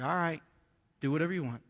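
low-key, reluctant consent; resigned giving in. Retold or imitated. Martha gives in to Jesus, mildly resigned.

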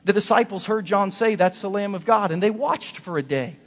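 loud, high exhortation; altar-call preacher pleading loudly; preaching at full force. Acted. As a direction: press the congregation to commit.

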